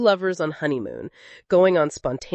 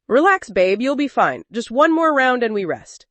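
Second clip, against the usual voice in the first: playful; 5 semitones higher, 4 dB louder than usual. Acted. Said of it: "he said playfully".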